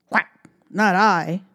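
loud quacking duck. Acted. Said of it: "quacked the duck".

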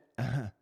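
short stifled snicker; imitated snicker. Man showing how the spirit snickered, short mock snicker. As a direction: mimic a brief scornful snicker. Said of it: "but kinda snickered".

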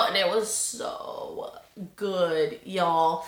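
almost whispered, savouring the taste; hushed delight at a great cocktail; breathy hushed praise. Real, not acted.

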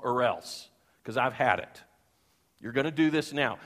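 firm, loud scolding dad; retold angry father. Father ordering his son to mount the windows, angry and loud. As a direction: lay down the law to a sulking son. Father sick of son's pity party.

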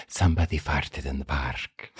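hushed, low imitation of a secret whisper; whispered in the ear. Girl passing a secret to a classmate after recess, whispered. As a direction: lean in and mimic a furtive whisper. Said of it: "and she whispered in my ear".

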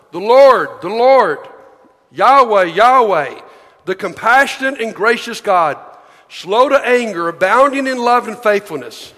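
emphatic, declaimed Bible reading; scripture reading. Acted. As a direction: proclaim the verse to a congregation. Reads scripture aloud to congregation.

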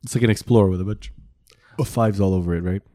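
talking through a beer burp; words broken by a fizzy burp; burping after beer. Real, not acted. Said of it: "Sorry, I'm burping this Coors Light".

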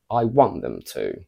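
want stressed, to left unstressed; stress on want only. Shown as a demonstration. Teacher repeating the second version. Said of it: "comparing the first to the second sentence".

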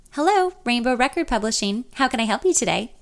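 lightly voiced bright phone greeting; a hint of a chipper receptionist answering; perky receptionist. Receptionist answers the publisher's phone, lightly perky. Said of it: "a perky, accented receptionist".

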